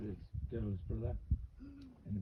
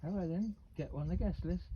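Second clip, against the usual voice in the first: taunting barman; 6 semitones higher than usual. Retold or imitated. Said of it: "someone come in the bar and went".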